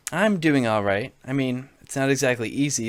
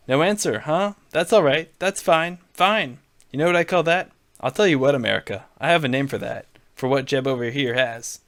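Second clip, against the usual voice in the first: Trump voice. Acted. Donald needling Jeb on stage, lightly brash Trump voice. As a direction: bluster at him like a showman.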